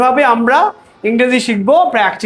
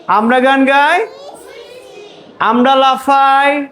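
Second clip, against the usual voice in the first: measured classroom chant, pausing after each phrase; call-and-response drill; 2 semitones higher, slower than usual. Real, not acted. Teacher leads children in an English translation drill, chanting.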